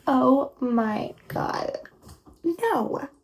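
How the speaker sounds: slow drawn-out Oh my God, then a high sharp No; shocked refusal. Acted. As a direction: gasp it out, then shut it down. Shocked at dinner invitation.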